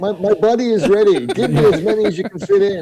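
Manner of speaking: high, loud, laughing, eager voice.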